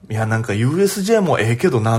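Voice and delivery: imitating a Kansai gal's grumble; lightly mimicked Kansai dialect; offhand Kansai-accented opinion. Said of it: "すっごい関西弁が聞こえてくるんです".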